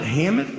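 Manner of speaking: "hammock" ending in a T, as "hammit". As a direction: swap the final K of "hammock" for a T. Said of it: "hammock with a T".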